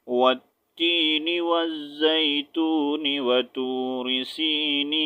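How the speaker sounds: slow linked tajweed without a breath; joined recitation. Shown as a demonstration. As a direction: run the verses together. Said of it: "تو کیسے پڑھیں گے؟". (بغیر سانس توڑے ملا کر تلاوت)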